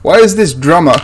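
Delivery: what on earth am I looking at; incredulous outburst. Real, not acted. Reacting to a bleeding drummer in the film, incredulous and laughing.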